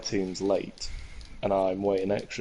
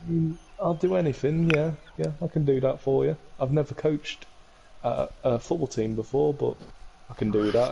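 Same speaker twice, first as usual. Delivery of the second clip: higher, eager agreeing voice; eager coach; 4 semitones higher than usual. Retold or imitated. Coach eagerly agreeing with Keane, higher voice. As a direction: overeager yes, pitched high.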